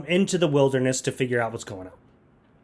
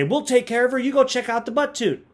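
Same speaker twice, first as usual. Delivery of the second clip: higher-pitched mock troll helpers; rock trolls; 8 semitones higher than usual. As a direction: voice helpful trolls sending her off. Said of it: "these rock trolls show up and say".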